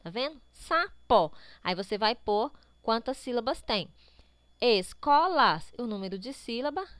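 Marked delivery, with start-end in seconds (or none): 0.5-1.3 Sapó said loudly in two pieces; syllable by syllable. Shown as a demonstration. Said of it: "separe a sílaba das palavras". 4.6-5.7 Escolas slow and loud, es-co-las; syllable by syllable. Shown as a demonstration. Teacher counts syllables for the exercise, syllable by syllable. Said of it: "separe a sílaba das palavras".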